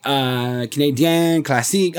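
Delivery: Classique said the French way, klah-SEEK; Canadian Classique with a put-on French ending; fake French accent. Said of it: "put a little not French speaking sauce on it".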